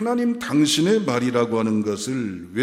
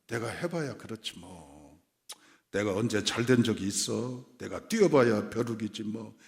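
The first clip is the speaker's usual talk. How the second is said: softer, deflated muttering; half-hearted, mock-defeated grumble; resigned self-doubt; 6 dB quieter than usual. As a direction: play someone who has given up on themselves. Voices a self-doubting believer's excuse.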